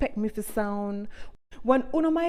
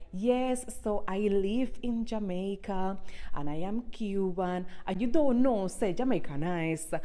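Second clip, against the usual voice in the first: proper English video intro; 5 dB quieter than usual. Retold or imitated. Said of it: "And me start my videos like".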